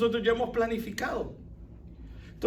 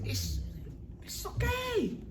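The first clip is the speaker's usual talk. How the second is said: mock dismissive shrug; 6 dB quieter, slower than usual. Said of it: "Oye, me heriste".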